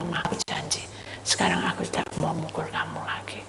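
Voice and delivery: soft, tender vow; whispered promise. Retold or imitated. Husband whispers promise to wife.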